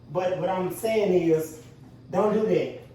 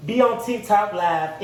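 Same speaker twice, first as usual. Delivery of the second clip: stressed; 2 semitones higher, 5 dB louder, slower than usual. Real, not acted. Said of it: "I'm stressed".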